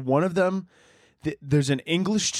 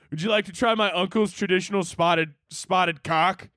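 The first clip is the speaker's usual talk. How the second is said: lightly put-on polite server voice; a hint of a prim host; mock polite offer; 4 semitones higher than usual. Teasing the British with a mock polite server voice.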